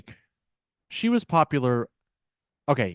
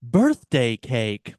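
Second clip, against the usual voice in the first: put-on Russian accent; 3 dB louder, much slower than usual. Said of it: "fake a Russian accent".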